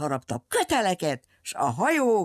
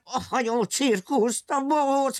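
forbidding villain; 8 semitones higher than usual. Acted. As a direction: forbid it with pompous fury.

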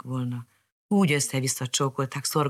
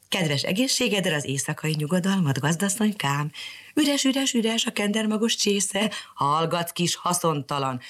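put-on bright, higher girl chatter to her bird; little girl voice; 5 semitones higher than usual. Mariska greeting her canary, sweet girl voice.

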